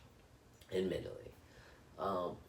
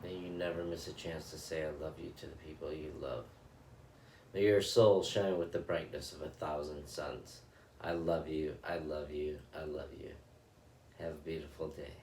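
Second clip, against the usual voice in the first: guided loving-kindness meditation. Acted. Meditation host blessing her viewers in a calm, measured recitation. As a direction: bless each listener gently, line by line.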